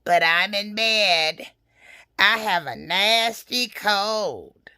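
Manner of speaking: slow, sickly scratchy fake granny. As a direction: rasp it slowly, feigning a cold. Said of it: "came a scratchy voice from the bedroom".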